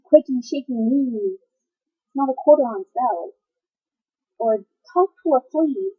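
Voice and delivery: dramatic slam-poetry reading with weighted pauses; poetry recital. Acted. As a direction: perform the poem with measured emphasis.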